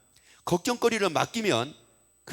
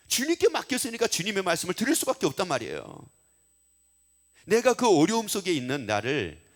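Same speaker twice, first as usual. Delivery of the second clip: emphatic exhortation to the congregation; forceful preaching; 4 dB louder than usual. Real, not acted. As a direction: preach it with conviction, rising into a blessing. Preaches with force, closing in blessing.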